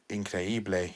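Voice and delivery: increíble said the Spanish way, rolled in-cre-EE-ble; a quick Spanish-flavoured increíble. Shown as a demonstration. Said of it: "if we're gonna go Spanish".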